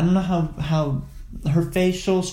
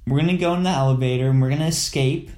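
panicked. Pretend. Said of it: "Why do you sound so panicked?".

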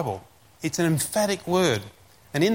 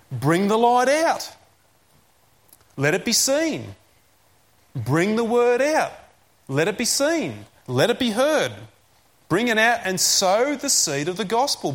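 urging proclamation; 2 semitones higher than usual. Acted. Preacher urging the congregation to spread the word, emphatic. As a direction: preach it as a ringing command.

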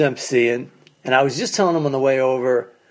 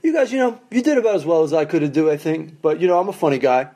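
lukewarm compliment; 3 semitones higher, faster than usual. Retold or imitated. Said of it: "It's the type of".

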